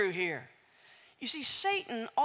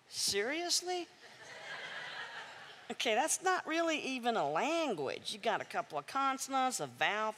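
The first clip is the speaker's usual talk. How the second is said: laughing; 5 dB quieter than usual. Real, not acted. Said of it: "laughing at the giant".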